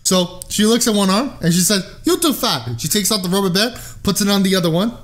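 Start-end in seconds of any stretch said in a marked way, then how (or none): 2.0-2.8 put-on higher, blunt Russian accent; Russian grandmother. Nurse to patient after checking his arm, Russian grandmother accent. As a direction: pronounce a verdict as a Russian grandma. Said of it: "she's a Russian grandmother".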